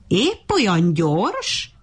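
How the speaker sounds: slow, drawn-out jeering question; mocking, amused. Monkey jeering at the ant, slow amused taunt. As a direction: stretch it out, barely holding back laughter. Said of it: "a hasát fogta nevettében".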